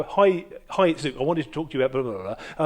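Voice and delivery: phone greeting rushed into the next sentence; running straight on. Shown as a demonstration. Caller talking over the other person's hello, running straight on. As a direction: greet and barrel on without a gap. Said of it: "I just ca-, if I just go".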